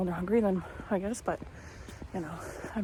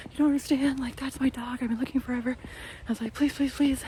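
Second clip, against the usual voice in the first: begging; 5 semitones higher than usual. Retold or imitated. Begging the dog seller on the phone, high and pleading. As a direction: beg him to let you have the dog. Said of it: "I was, like, begging this guy".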